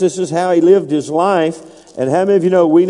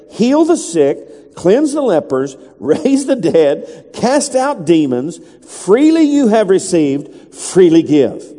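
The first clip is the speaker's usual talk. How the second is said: slow, punched preaching cadence; emphatic scripture reading; slower than usual. Real, not acted. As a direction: hammer out each command slowly, pausing between them.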